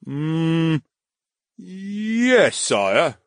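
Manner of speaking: a hint of a dutiful guard; guard's answer. Guard answers his lord.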